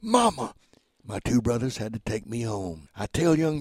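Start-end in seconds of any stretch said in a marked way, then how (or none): 0.0-0.5 high frightened cry for mama; retold terrified child scream; child's scream. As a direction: scream for your mother as a scared boy. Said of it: "and I screamed".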